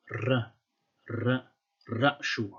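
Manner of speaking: "r" and "rashu" with a tongue-tip rolled r; apical trill r. Shown as a demonstration. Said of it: "it was an apical trill, so like".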